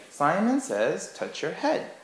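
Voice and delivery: high, slow Simon says call; game leader call. Shown as a demonstration. Teacher running the game quickly with the kids. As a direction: lead the game with a lifted voice. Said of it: "You could just be like".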